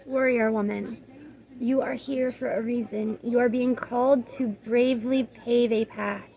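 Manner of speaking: measured, even oracle-card reading; guidebook read-aloud. Real, not acted. Reader giving viewers the card's message, measured read-aloud.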